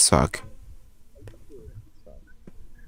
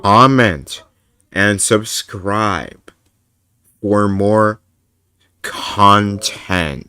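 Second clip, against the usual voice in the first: slow, drawn-out mock-showman plug; grandiose sign-off; 5 dB louder, much slower than usual. Streamer begging viewers to subscribe, hammed-up grand voice. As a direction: stretch each word with mock grandeur.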